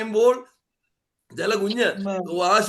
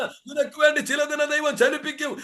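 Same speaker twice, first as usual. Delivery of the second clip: building preaching. Real, not acted. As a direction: build the promise to a climax. Building sermon climax.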